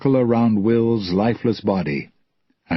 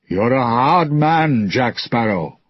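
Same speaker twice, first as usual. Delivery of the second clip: stern pirate captain; 3 semitones higher than usual. Acted. Villain Jones taunts Jack.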